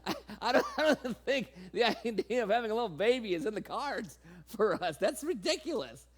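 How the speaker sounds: giggling disbelief; Sarah laughing. Retold or imitated. Sarah scoffing at having a baby, laughing. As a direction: laugh it off as absurd. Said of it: "And I'm just like".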